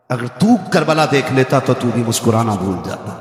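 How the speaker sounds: low, hushed and sorrowful. Retold or imitated. Imam's words quoted to son.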